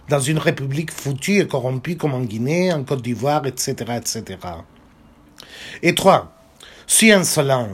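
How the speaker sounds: steady French novel reading; story narration. A narrator's reading. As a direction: read the child's tale aloud. Reads the novel aloud in French.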